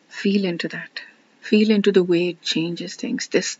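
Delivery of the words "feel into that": soft guiding whisper. Real, not acted. Speaker guides listeners into the exercise, whispering. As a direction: breathe the words out gently.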